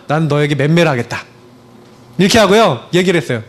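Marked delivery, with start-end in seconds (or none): 0.1-1.2 put-on measured, restrained ultimatum to a child; stern warning. Father gives his child a last chance, restrained warning. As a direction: lay down a last warning without raising the voice. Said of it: "마지막으로 통보했어요".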